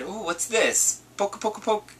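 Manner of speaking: put-on high, curious childish voice; little girl voice. Imagining the niece poking the console, high and childlike. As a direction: mimic a toddler poking buttons.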